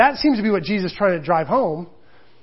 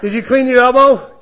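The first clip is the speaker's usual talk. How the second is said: put-on higher, louder child questions, laughing; imitating son; 5 semitones higher, 7 dB louder than usual. Son outside the shower quizzing dad, laughing child voice. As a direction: quiz dad like an eager kid. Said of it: "he'll sit outside the shower and go".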